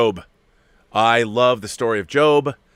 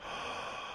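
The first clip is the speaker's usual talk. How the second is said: mock gasp; 18 dB quieter than usual. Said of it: "I'm not gonna be like".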